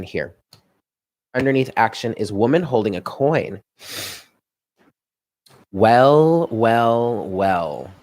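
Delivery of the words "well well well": knowing well well well. Real, not acted. Reacting to a tarot card.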